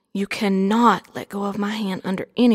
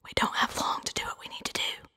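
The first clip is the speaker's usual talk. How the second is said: soothing whisper, much softer; calm voice; 11 semitones higher, 8 dB quieter than usual. Acted. Aunt tells her niece she is safe now, calm whisper. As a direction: hush and reassure in a higher, whispered character voice. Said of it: "in a calm voice said".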